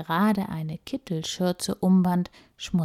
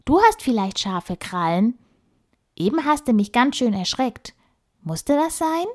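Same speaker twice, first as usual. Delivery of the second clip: put-on young girl voice; 5 semitones higher, 4 dB louder than usual. Emma complains to the squirrel.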